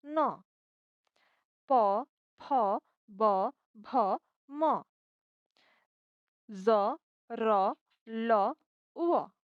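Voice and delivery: each Assamese letter voiced as a bare sound, spaced out; sounding out Assamese letters for learners; letter sounds only. Shown as a demonstration. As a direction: sound out the alphabet slowly and clearly, pausing between letters. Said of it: "मैंने सिर्फ उच्चारण पर ध्यान दिया".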